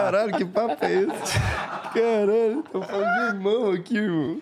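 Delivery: laughing in disbelief. Real, not acted. Reage chocado à piada, rindo.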